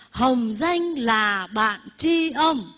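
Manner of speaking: slow recitation for others to repeat; measured call-and-repeat reading; recited verse. Shown as a demonstration. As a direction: draw out each word for the group. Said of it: "Xin quý vị đọc".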